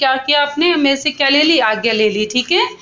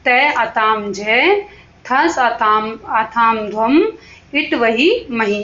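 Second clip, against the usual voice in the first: slow, spaced rote chant of suffixes; slow classroom recitation; slower than usual. Shown as a demonstration. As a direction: drill each ending slowly so pupils memorise it. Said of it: "इस तरह से इनको याद कर लेना".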